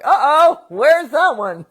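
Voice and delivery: high, loud puzzled coyote. Retold or imitated. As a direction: voice the coyotes wondering. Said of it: "and they're all like".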